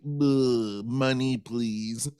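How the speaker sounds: groaning, put-upon star voice; mock-weary fan-photo grumble; bored celebrity. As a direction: sigh it out like a jaded celebrity.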